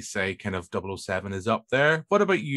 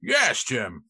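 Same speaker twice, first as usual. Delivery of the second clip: Sean Connery; much slower than usual. Retold or imitated. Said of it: "and go full Connery".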